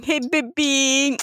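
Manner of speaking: flirty. Acted. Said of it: "She's going".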